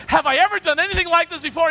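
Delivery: high, loud donkey protest; pleading donkey. Retold or imitated. Donkey defending its record to Balaam, mock-indignant appeal. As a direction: plead your case as the wronged donkey. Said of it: "And the donkey says".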